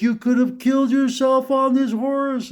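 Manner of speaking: high, panicky mother's voice; imitated freaking-out mom. Mom scolding her son about the horse ride, mock panic. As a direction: squeal it like a frantic mom. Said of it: "she was freaking out".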